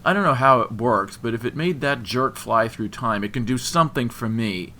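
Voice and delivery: angry rant. A narrator's reading. Jilted man claiming his rival's ring, angry rant. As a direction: spit out the grievance loudly. Christian rants, refusing the ring.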